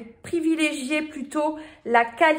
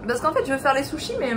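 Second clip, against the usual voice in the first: mouth full; 2 semitones higher, faster than usual. Real, not acted. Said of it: "on parle pas la bouche pleine".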